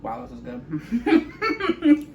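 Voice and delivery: slow, laughing through a mouthful; mouth full. Real, not acted. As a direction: talk around a bite of food. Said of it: "Like, sorry".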